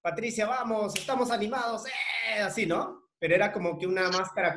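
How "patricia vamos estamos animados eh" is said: upbeat pep talk. Retold or imitated. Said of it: "con una forma de ser, o sea, de decir".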